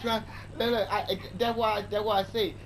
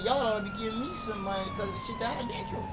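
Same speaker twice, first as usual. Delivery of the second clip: high mock voice; faster than usual. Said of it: "I said".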